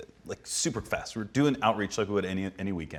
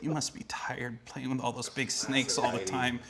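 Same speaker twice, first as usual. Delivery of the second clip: soothing sympathy; 3 semitones higher, 6 dB quieter than usual. Retold or imitated. Heidi coaxing the snake man, retold.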